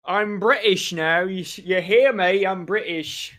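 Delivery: lightly put-on British accent; mock British accent. Co-caster teasingly claims to be British, mock British accent. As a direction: play at being British, drawn out. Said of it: "I'm British now ... make a tier list of my accents".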